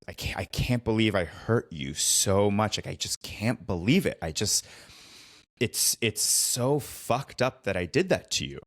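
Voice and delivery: usual speaking voice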